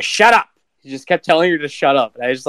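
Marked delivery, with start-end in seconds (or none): 0.0-0.5 mock snap. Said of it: "And he's like".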